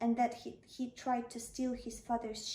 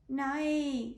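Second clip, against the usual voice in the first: mild nay; 3 semitones higher, 4 dB louder than usual. Acted. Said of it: "said the three youngest".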